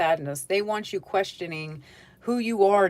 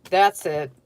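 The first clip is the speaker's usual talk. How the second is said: louder, a furious burst of da da da; heated mock rant; 5 dB louder than usual. Virgo going off at a relative who triggered them, in a heated mock rant. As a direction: go off like you've finally snapped. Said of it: "you're all heated now".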